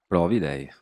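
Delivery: a cheeky loud "provi lei"; loud retort. Real, not acted. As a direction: fire it back at chat.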